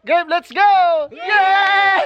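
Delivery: high, eager cheer; excited. Real, not acted. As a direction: fire up the group. Everyone agrees to play.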